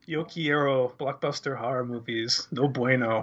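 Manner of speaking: put-on jokey Spanish accent, lightly done. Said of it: "such a perfect Spanish accent".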